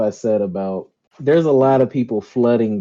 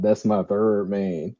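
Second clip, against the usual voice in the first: mocking quote; 4 dB quieter than usual. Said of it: "talking about".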